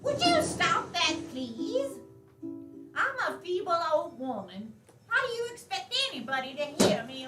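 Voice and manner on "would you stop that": louder, higher irritated snap; annoyed shout. Acted. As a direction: yell at the pest to stop. Old woman scolding noise.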